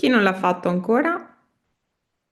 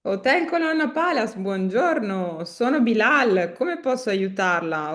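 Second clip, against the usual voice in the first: happy and enthusiastic. Shown as a demonstration. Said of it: "You should be happy to say this".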